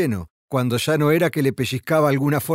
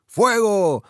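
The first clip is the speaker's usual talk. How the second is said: roared command; 7 semitones higher than usual. A narrator's reading. Sergeant commanding his men in a gunfight, restrained roar. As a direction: call it out as a sergeant's order. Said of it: "rugía la voz del sargento".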